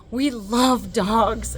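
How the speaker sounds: match his excitement; eager agreement. Retold or imitated. Echoing the excited doctor.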